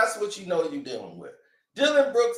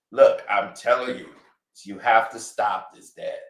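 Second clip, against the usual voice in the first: tired son pleading with his father; Drake scolding dad; 5 semitones lower than usual. Retold or imitated. Drake voiced.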